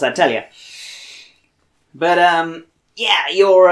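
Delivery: lightly put-on Boston accent; terrible Bostonian accent. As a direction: speak in character with a shaky attempt at Bostonian. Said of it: "this terrible Bostonian accent".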